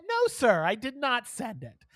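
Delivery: high, worked-up no sir; telling the scammer off, high and incredulous; indignant retelling. Retold or imitated. Retold refusing the scammer.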